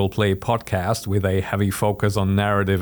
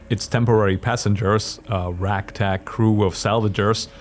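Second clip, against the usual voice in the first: measured storyteller narration; story narration. A narrator's reading. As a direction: narrate the scene steadily.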